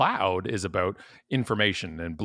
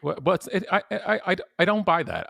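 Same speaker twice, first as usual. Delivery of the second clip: laughing protest; 11 semitones higher, 4 dB louder than usual. Real, not acted.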